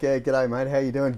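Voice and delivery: easygoing Aussie bloke greeting; lazy outback mate voice; laconic outback drawl. Retold or imitated. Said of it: "talk up to a bloke".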